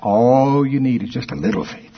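mock religious preacher, hammed up; a hint of a sing-song preacher. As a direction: lightly parody a pious preacher. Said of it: "my mocking preaching voice".

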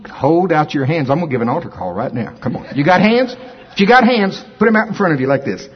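urgent calling to come forward; pleading preacher altar call. Acted. Altar call, urging congregation.

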